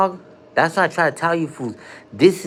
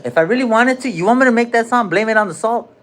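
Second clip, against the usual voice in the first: excited boast; 8 semitones higher, 4 dB louder than usual. Real, not acted. Excited boast about making song.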